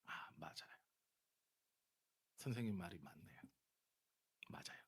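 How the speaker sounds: soft, low, yielding reply; meek concession. Acted. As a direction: act out humbly giving in. Acts the meek reply he owed.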